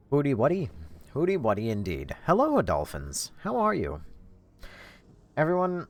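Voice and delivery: high, loud goofy greeting; silly high voice. Acted. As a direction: squeal a cheerful hello.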